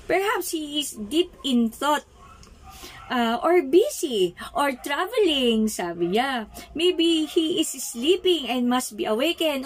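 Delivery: taunting. Acted. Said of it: "Elijah began to taunt them".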